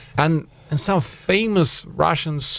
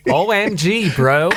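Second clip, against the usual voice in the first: high mock American party bro; exaggerated Persian-American party kid; 5 semitones higher than usual. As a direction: put on an excited American bro.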